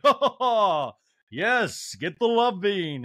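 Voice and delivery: high, whooping mock delight; Garcelle. Garcelle laughing along at the show, hammed-up whoop. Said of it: "Garcelle's laughing".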